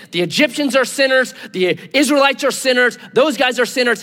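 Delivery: mock prophet condemning everyone; nailing people. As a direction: fire off accusations one after another. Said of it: "He's just nailing people".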